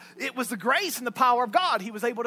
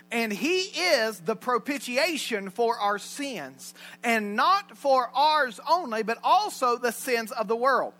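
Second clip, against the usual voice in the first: slow, measured Bible reading; scripture reading; 3 dB louder, slower than usual. Acted. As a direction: read it out slowly, with weight.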